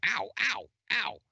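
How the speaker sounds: high-pitched mock "ow"; acted pain cries. Game master voices the burned enemy, mock yelps of pain. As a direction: yelp it like a wounded enemy. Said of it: "he's like".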